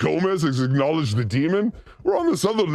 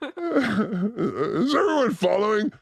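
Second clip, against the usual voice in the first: laughing; much slower than usual. Real, not acted. Laughing question.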